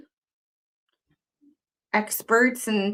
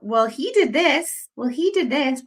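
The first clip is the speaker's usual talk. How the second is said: mocking whiny quote; 5 semitones higher than usual. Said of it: "it's all about".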